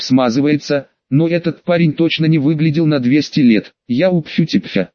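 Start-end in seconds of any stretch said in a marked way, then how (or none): 3.9-4.9 garbled hiss through held fangs; a hint of a hissing vampire, words mangled; hissing feral vampire. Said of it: "зашипел вампир".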